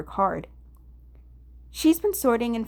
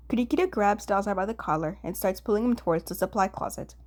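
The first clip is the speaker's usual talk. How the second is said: ordinary delivery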